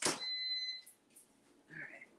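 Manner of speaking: very high, soft sung squeal. Real, not acted. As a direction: squeak it out in falsetto. Squealing while assembling cake.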